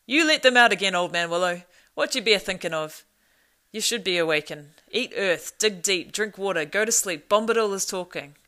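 forceful, chanted orders at full voice; booming rebuke, opening high; loud command. A narrator's reading. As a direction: order the tree about in short loud bursts. Tom commands the willow tree.

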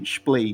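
"Splay" with an L in place of the R; Splay mispronunciation. Shown as a demonstration. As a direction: say "Splay" as mom does. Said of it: "falar certinho". (pronúncia "Splay" com L)

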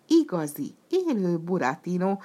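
loud excited cry; yell. Acted. Piero yelling at the sight of Burattino. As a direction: holler it across the stage. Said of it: "ordította Piero".

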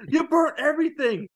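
a hungover pirate waking up confused; groggy Jack. Retold or imitated. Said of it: "He's like".

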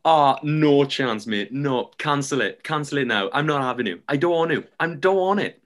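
mock-adamant rejection; Scouse caller. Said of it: "This Scouser going".

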